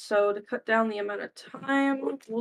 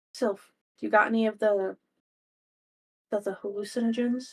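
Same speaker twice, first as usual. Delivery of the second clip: whispered in a character voice. Playing a character quietly asking Sylph for hallucinogens: whispering in character. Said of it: "I whisper to Sylph".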